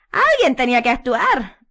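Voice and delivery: slow, loud and high; self-righteous, drawn out; Umbridge voice. A narrator's reading. Umbridge answering Harry, slow.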